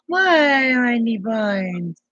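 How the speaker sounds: ordinary talk, nothing marked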